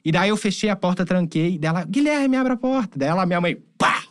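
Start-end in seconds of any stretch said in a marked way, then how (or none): 1.8-3.0 high-pitched imitation of mom calling out; retold call through a locked door; urgent mock-mom order, pitched way up; mother demanding entry.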